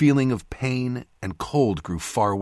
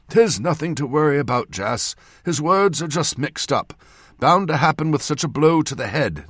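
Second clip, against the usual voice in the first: put-on old northern surgeon, pitched up; old man's voice; 7 semitones higher, 4 dB louder than usual. A narrator's reading. Old surgeon telling Jas not to worry, old man's voice. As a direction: speak up as an old man explaining. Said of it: "the old man said".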